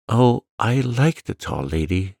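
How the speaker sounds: a touch of a breathless gasp. Acted. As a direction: blurt it out with a light gasp. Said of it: "she gasped".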